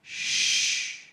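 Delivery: a whispered shh; shushing. Pretend. God hushing the listener.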